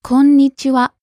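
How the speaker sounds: こんにちは with a slightly lengthened ん; held n sound. Shown as a demonstration. Co-host echoing the teacher's pronunciation, こんにちは with a held ん. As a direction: hold the ん briefly in こんにちは. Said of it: "You hold the n sound for a little bit".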